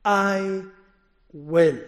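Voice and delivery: "I" and "will" each set apart and weighted; stress on I WILL. Shown as a demonstration. Preacher to congregation, weighty stress on I will. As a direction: lean on "I", pause, then land "will". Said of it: "We are to lay emphasis on these words".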